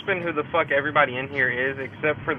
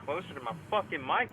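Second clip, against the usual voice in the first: talking with a phone in mouth; words round a phone between teeth; phone held in teeth; 2 semitones higher, 12 dB quieter than usual. Real, not acted. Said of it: "My phone's in my mouth".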